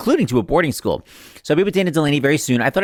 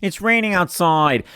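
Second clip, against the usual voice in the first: slow, higher mock French Canadian comeback; Mister Couture impression; 4 semitones higher, slower than usual. Comeback to anyone asking something stupid, mock French Canadian accent. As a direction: imitate a French Canadian teacher, pitched up and drawn out. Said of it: "my imitation is amazing".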